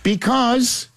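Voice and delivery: put-on high-pitched analysis. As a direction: hold a high pitch through the stats. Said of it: "still gotta go higher register".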